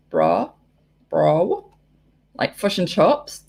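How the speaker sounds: put-on New Zealand accent. Shown as a demonstration. Showing how New Zealand differs from Australian, New Zealand accent. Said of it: "they sound like New Zealand".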